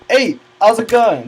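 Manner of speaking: a horrible mock Colombian accent, cheerful hello; bad Colombian accent. Imitating a gamer friend on call in a bad Colombian accent. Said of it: "horrible Colombian impression".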